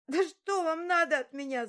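high, loud, strained scream; shouted in despair. Acted. Held girl screaming at her tormentors, high and loud. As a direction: cry out at them in pain and panic. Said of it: "закричала я".

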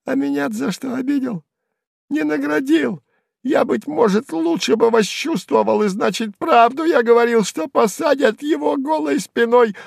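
high, jeering squeal; high sneering jester cry; high mocking yell. A narrator's reading. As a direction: shout the taunt at him. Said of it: "кричит".

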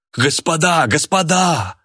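high, alarmed appeal; frightened exclamation. A narrator's reading. Man rushes up to quarrelling guests, exclaiming in fright. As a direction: pitch up each word in alarm. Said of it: "испуганно воскликнул он".

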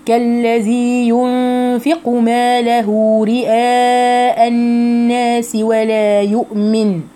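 slow chanted phrase, drawn-out vowels; tajweed recitation. Shown as a demonstration. Teacher models the phrase for students, slow chanting. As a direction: recite slowly, each syllable clear.

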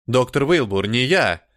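put-on growled in a heavy Slavic accent. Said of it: "славянскому акценту".

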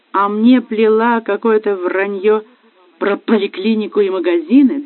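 betrayed husband accusing his wife, bitter and rising; bitter accusation. Acted. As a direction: hammer home each betrayal.

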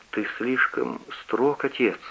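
soft, slow murmur; babbling timidly. A narrator's reading. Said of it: "пролепетал Отто". (робкий лепет, тихо и медленно)

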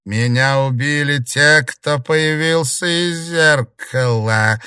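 slow, loud, high hate-filled ghost voice; hateful hiss. A narrator's reading. Ghost hisses with hatred about her murderers, slow and loud. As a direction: let the hatred seep through. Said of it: "с ненавистью прошипела тень".

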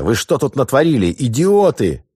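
high, loud shriek. Acted. Petrosovet official shrieking at the sailors over the shooting, high and loud. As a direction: shriek at the idiots. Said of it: "взвизгнул представитель Петросовета".

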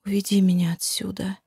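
unvoiced weak whisper; exhausted whispered plea. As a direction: barely breathe the plea. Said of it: "прошептав".

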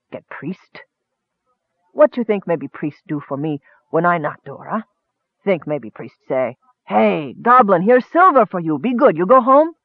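cool goblin voice, broken speech; a calm, mocking goblin toying with him; lightly voiced goblin. Goblin taunting the dying hunter, lightly voiced and cool.

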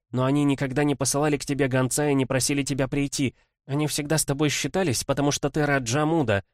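lightly voiced bitter younger sister; resentful sister. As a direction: pour out years of resentment. Kimbodzha vents resentment.

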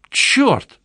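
high delighted yelp; cried out. A narrator's reading. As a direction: blurt it in awe. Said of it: "вскричала Лавелла".

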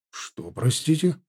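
slow, dazed question; stunned. A narrator's reading. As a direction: caught completely off guard. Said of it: "ошарашенно переспросил".

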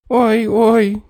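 high moaning "ой, ой"; groaning cry. A narrator's reading. Little man starving, high groaning moan. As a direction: moan in weak pain. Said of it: "застонал человечек".

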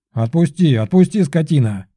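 squealing pigeon. A narrator's reading. Gaspar caught in Belov's hands, squealing. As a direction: shriek to be let go. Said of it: "завизжал Гаспар".

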